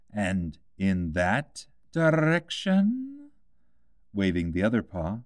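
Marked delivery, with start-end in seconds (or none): 0.1-3.1 slow, drawn-out cat voice; a sly cat pointing the way; lightly voiced grinning cat; Cheshire Cat voice. A narrator's reading. Cat answering.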